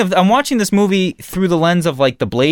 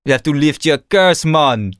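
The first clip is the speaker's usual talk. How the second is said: put-on Caribbean accent. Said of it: "like a French accent".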